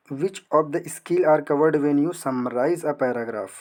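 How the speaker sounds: very slow, word-by-word dictation reading; reading the question aloud. Acted. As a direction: read each word slowly for students to follow. Reads exam question aloud. (प्रश्न को बहुत धीरे-धीरे पढ़ना)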